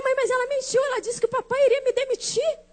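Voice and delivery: high-pitched mock indignation; indignant protest. Daughter complaining to mom about the lie, indignant.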